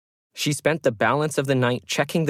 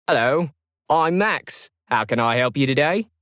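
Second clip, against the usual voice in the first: call centre agent; 3 semitones higher than usual. Acted. Agent answers the phone.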